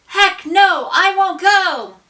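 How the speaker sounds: high, loud protest chant; shout. A narrator's reading. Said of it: "she shouted".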